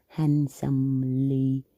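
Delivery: Handsomely drawn out slowly, relishing it; savoring. Shown as a demonstration. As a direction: linger on Handsomely like tasting it. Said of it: "repeated slowly, relishing it".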